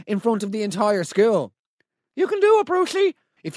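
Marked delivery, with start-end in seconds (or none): 2.2-3.1 mock cheer. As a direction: cheer him on like a crowd egging a kid. Cheering on Brucey, Trunchbull scene.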